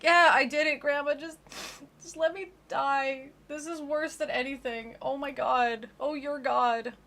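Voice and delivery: hammed-up exasperated dying girl; exasperated Ashley. Ashley begging grandma to leave, mock-exasperated. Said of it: "She's like".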